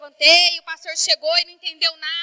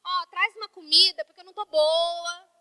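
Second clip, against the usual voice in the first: sick and weak; 4 dB quieter than usual. Retold or imitated. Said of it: "E eu tava ruim, resfriada".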